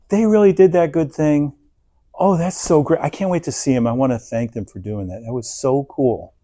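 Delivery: happy for them. Retold or imitated. Someone rejoicing at good news, lightly excited. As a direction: sound truly glad for a friend. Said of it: "A person like this goes".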